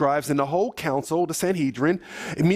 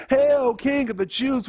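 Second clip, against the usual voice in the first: high, sneering mock homage; mocking soldiers; 8 semitones higher than usual. Soldiers mocking Jesus with a crown of thorns, high sneering hail. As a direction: hail him like a joke king. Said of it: "So they're making fun of him".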